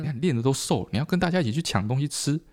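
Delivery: lightly voiced worried parent; parent scolding. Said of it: "然后父母就一直跟他说".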